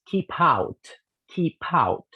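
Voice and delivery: "keep out" as "kee-pout"; p runs into "out"; linked. Shown as a demonstration.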